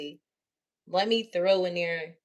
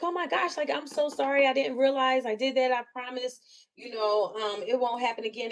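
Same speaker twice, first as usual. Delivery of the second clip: flustered apology; 4 semitones higher than usual. Retold or imitated. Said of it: "I'm like".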